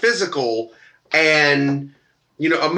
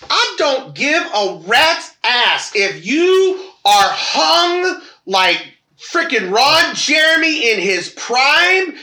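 higher, slow, drawn-out emphasis; emphatic rant; 6 semitones higher, slower than usual. Real, not acted. Ranting at men who send pics, slow emphatic outrage. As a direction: lean on every word in disbelief.

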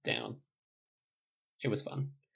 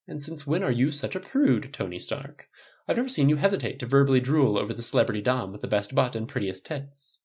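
lightly campy needling; campy mock scold; 2 semitones higher than usual. Stylist mocking Tony as a prude, campy. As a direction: tease him for prudishness.

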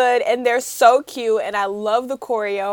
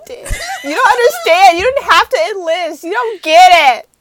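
mock crying wife; 6 semitones higher, 9 dB louder than usual. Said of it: "She was like".

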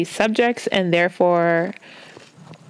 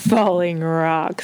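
ironic air quotes; slower than usual. Pretend. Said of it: "You can't see the air quotes".

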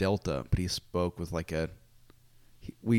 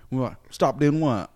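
feigned innocence; 5 semitones higher, 8 dB louder, slower than usual. Retold or imitated.

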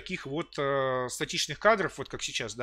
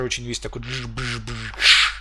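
whooshing noise; 4 semitones lower, 4 dB louder, much slower than usual. Shown as a demonstration. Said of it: "такой очень быстрый".

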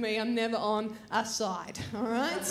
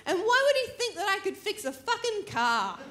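higher, mock furious rant; mock angry rant; 6 semitones higher than usual. Ranting about the stranger, higher mock fury. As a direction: vent the outrage half-laughing. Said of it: "I was so angry".

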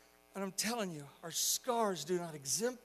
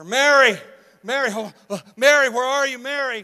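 mother's loud, higher call, acted out; louder calling; 6 semitones higher, 18 dB louder than usual. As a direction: call out harder for a missing child. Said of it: "the mother's voice got louder".

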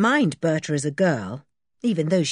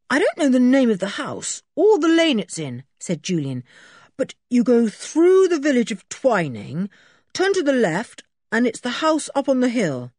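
put-on brisk boyish voice, a touch higher; lightly voiced Julian; 9 semitones higher, 5 dB louder than usual. Boy explaining the rescue to a policeman, lightly higher. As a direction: Julian explaining eagerly to the sergeant.

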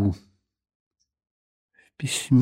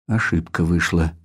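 apologetic; 6 semitones lower than usual. Acted. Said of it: "извиняющимся тоном".

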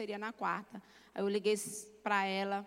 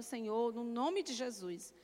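retold prayer.

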